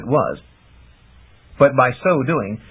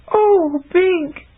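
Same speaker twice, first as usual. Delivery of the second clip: higher, lightly voiced young woman, moved; tender sigh. A narrator's reading. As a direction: breathe his name with love. Chameleon's tender cry.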